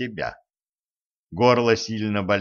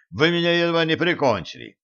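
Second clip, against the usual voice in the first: higher, fast, breathless protest; breathless complaint; 6 semitones higher, faster than usual. A narrator's reading. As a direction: gasp it out still shaken. Choked man complains mid-coughing.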